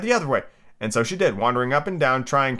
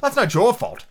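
high, gently patronizing reassurance; kindly; 10 semitones higher, 3 dB louder than usual. A narrator's reading. The Rose excusing Alice's untidy petals, high kindly tone. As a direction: console her in a high kindly voice. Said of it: "the Rose added kindly".

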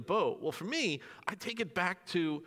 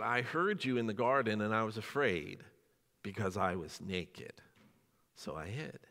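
mild fearful confession; 7 semitones lower than usual. Retold or imitated. Adam answering God from hiding, small and afraid. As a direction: admit it shrinking away.

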